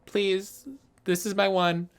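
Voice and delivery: high, loud, pleading mock apology; mock apologetic driver. Imagined driver apologising to the other car, high mock plea. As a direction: beg like a sheepish driver caught out. Pretend driver after a crash.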